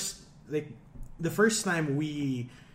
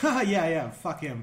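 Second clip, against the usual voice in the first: imitated laughing dismissal; 4 semitones higher, 6 dB louder than usual. Acted joking friend laughing it off.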